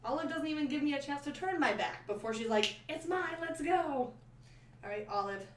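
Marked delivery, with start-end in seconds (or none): 2.9-4.1 high, slow playful dog voice; voicing the dog. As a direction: speak for the dog, greedy and eager.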